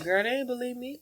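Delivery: whispering. Retold or imitated. Kids retold, parents disbelieved.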